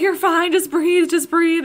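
high, loud retold reassurance; urgent reassurance. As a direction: imitate someone urgently talking a panicker down. Acting out ex-husband calming her down.

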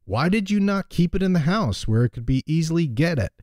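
storytelling read-aloud; lightly voiced story narration; fable reading. A narrator's reading.

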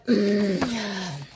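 sharp surprised intake of breath; startled gasp. Real, not acted. Vlogger startled by the card's picture, startled gasp. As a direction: gasp as if caught off guard. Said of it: "he surprised me".

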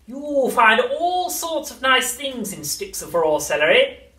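high, slow crone voice; witch voice. A narrator's reading. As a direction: cackle it like an old witch.

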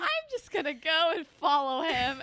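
high, loud mock gushing; hammed-up declaration of devotion; starry-eyed believer. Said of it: "you're just like".

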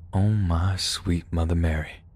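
slow, softened stunned quote; imitating a friend's quiet disbelief; hushed shock. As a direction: say it slowly under your breath, as if stunned. Buddy sees the shocking news.

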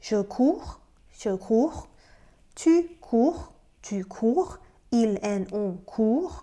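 COURS and COURT as 'koor', each rising; pronunciation drill. Shown as a demonstration. Teacher reciting a conjugation for learners, pronunciation drill. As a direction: model each form separately, COURS with no final s. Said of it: "ออกเสียงเป็น".

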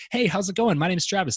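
high, loud, pushy cheer; overbearing salesman greeting. Shown as a demonstration. Salesman at the door greeting a homeowner, overbearing and loud. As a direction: gush at the door like a too-eager salesman. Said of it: "this, like, big smile and, like, overbearing energy".

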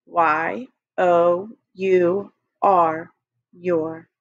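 Y O U R spelled very slowly, letter by letter; slow spelling. Shown as a demonstration. Teacher leading the class in slowly spelling your. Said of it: "with your eyes closed".

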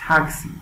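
"تاکسی" as English "TAK-si"; correct pronunciation. Shown as a demonstration. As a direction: puff the t of "تاکسی".

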